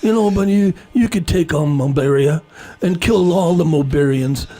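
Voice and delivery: lightly voiced mobster arms dealer; mob boss voice. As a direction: make an offer as a casual mob boss. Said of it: "use your mob boss voice".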